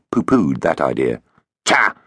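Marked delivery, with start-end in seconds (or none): 1.7-2.0 scoffing robot snort; scornful. Acted. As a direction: dismiss it with scorn. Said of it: "it said scornfully".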